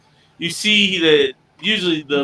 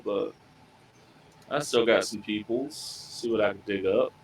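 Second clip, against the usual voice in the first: sheepish, hesitant offer with pauses. Acted. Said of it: "sheepish. He's been real quiet".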